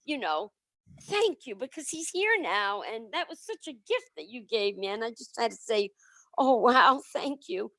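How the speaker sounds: holding back tears while thanking; emotional. Real, not acted. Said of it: "I'm a little emotional".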